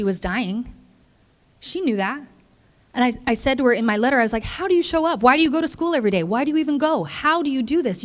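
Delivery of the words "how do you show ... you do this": higher, amazed questions tumbling out; awed, pleading questions; amazed questioning. Retold or imitated. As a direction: marvel at how she copes. Retold letter asking Cindy amazed questions.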